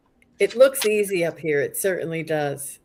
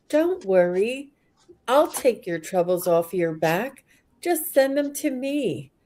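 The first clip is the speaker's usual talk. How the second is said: lightly voiced comforter, pitch lifting; loving, compassionate; 4 semitones higher than usual. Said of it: "looking at you with such love".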